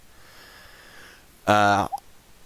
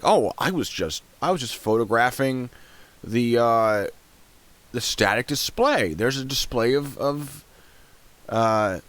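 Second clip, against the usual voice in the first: mocking quote; 5 semitones higher than usual. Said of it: "he makes this defense".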